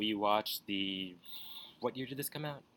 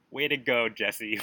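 mock scolding; 5 dB louder than usual.

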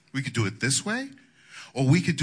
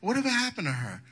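mock gossiping churchgoer; 11 semitones higher, faster than usual. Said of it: "You say".

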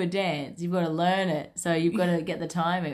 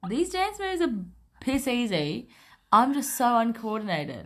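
higher, lively self-mockery; high quoted voice; 5 semitones higher than usual. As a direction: raise the voice for your own complaint. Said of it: "I was like".

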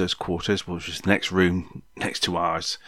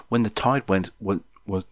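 stumbling, repeating words; stutter. Real, not acted. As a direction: catch on the word went. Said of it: "stutter, stutter, stutter".

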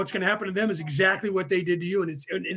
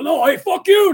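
much higher, louder mock furious retort; angry yell; 10 semitones higher, 9 dB louder than usual. Selfish driver yelling back at an apology, mock furious shout. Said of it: "you're gonna go".

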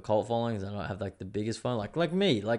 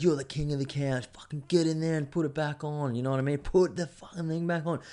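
mock pep talk; 5 semitones higher than usual. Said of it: "she's like".

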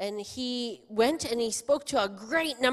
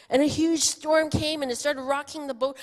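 dramatic build; 6 semitones higher, 7 dB louder than usual. Real, not acted. Dramatic storm telling.

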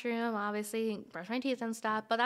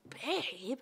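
BABE drawn out as a question; imitated puzzled babe; 2 semitones higher, 5 dB quieter than usual. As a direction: ask babe as if querying the word. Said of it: "like, question".

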